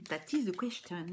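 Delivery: English in a thick French accent. Real, not acted. Reader quoting English to viewers, in a poor French-accented English. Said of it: "mon accent déplorable anglais".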